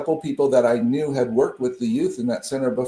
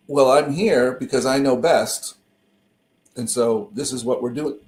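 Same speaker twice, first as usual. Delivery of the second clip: talking through hiccups; hiccuping. Real, not acted. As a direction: speak with hiccups interrupting. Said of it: "Pardon me, I'm hiccuping".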